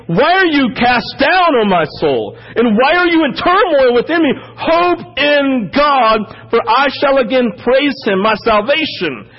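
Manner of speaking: pleading with his own soul, lifted up; impassioned reading. Acted. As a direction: proclaim it out to the room. Psalm read aloud, first time.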